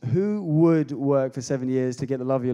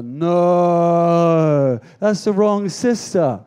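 shocked realization; 6 dB louder, much slower than usual. Acted. Jacob waking next to the wrong sister, loud and shocked. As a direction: recoil in disbelief. Jacob wakes beside Leah.

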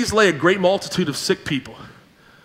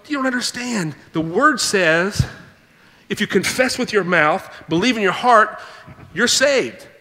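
mock preachy pastor; 2 semitones higher than usual. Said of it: "I'd be going".

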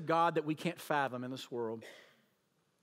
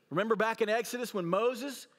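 ordinary delivery

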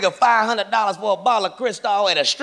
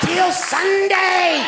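drawn out; 8 semitones higher, much slower than usual. Acted. Drawn out punchline.

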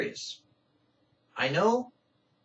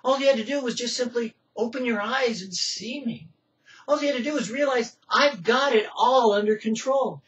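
voice of God; 5 semitones higher than usual. Acted. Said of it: "God said".

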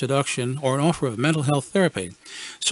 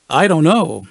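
waffling; 3 semitones higher, 6 dB louder than usual. Retold or imitated. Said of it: "I waffled, caught off guard".

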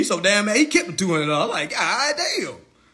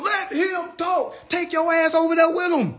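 mock whiny quote; 10 semitones higher than usual. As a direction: stretch it out high and mocking. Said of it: "whoever talking about".

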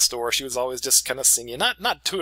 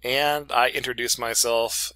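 usual speaking voice

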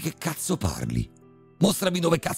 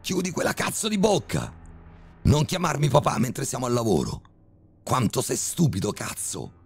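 much higher, raging father's rant; furious yelling; 13 semitones higher than usual. A narrator's reading. Father berating his son at work, furious yelling. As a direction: scream the insults at him. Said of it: "urlò mio padre".

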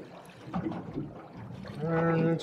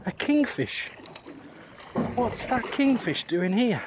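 surprised; 5 semitones higher, slower than usual. Real, not acted. Surprise catch of a kingfish.

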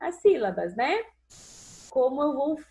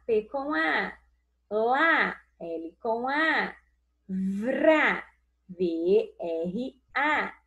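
slow spelling; slower than usual. Shown as a demonstration.

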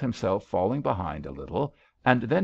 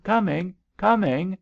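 high, loud urgent call; yell; 10 semitones higher, 5 dB louder than usual. A narrator's reading. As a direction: yell that help is on the way. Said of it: "he yelled".

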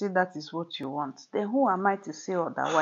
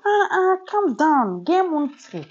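urgent calming; 7 semitones higher, 7 dB louder, slower than usual. Acted. Wife urging husband to calm.

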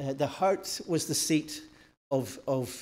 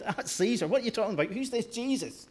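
higher-pitched, challenging questions; incredulous objection; 6 semitones higher than usual. Acted. Romans challenging a lone believer, incredulous. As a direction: push back in disbelief, pitch climbing.

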